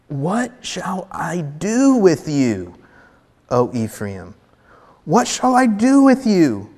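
slow, weighty reading of God's plea; God's lament. Shown as a demonstration. Preacher voicing God to his people, slow and pleading.

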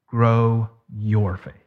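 slow, low delivery with weight on "your"; stress on YOUR. Real, not acted. Preacher telling believers what grows faith, stress on YOUR. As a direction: set "your" apart, drawn out and deliberate. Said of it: "I emphasize the word your".

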